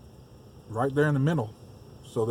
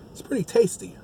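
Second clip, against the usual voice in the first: talking while chewing; words round a bite of food; mouth full; 7 semitones higher than usual. Real, not acted. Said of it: "take another bite of this".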